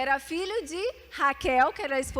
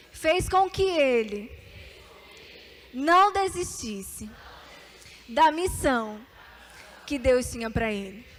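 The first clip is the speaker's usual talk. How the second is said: slow dictated phrases; slower than usual. Shown as a demonstration. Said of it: "fala assim pra ela".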